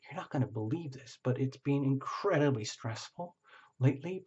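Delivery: a client whispering a secret to the reader; mock whisper. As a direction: lean in and confide it softly. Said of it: "you're whispering in my ear".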